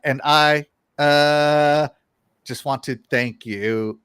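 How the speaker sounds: flat, slow reading, no melody; monotone reading. Retold or imitated. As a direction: read the lyric like a dull list. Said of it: "reading it in the most monotone voice".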